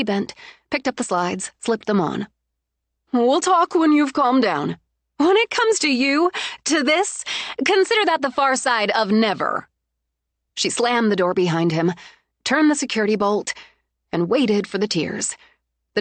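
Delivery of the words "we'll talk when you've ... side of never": cold furious dismissal. Acted. Bride dismissing fiancé for good, cold fury. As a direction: close the door on him forever.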